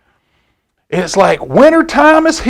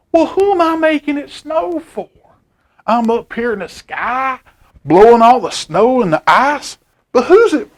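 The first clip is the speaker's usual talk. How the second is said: put-on a puzzled old man asking, rising high at the end; an old man in the sky, asking who the snow is for; 4 semitones higher than usual. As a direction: wonder aloud as the lost old man. Old Man Winter wonders aloud.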